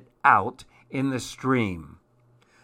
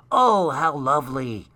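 delighted; 3 semitones higher, 4 dB louder than usual. A narrator's reading. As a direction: exclaim with storybook delight. Everyone delights in the juice.

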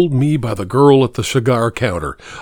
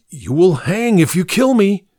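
hysterical threat; 7 semitones higher than usual. A narrator's reading. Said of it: "I threatened hysterically".

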